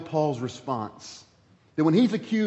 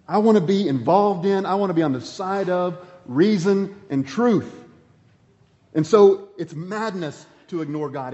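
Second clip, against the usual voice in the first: louder, fervent preaching; rising declaration; 3 semitones higher, 6 dB louder than usual. Real, not acted. Preacher declaring to congregation, loud and fervent. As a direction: proclaim it with full conviction.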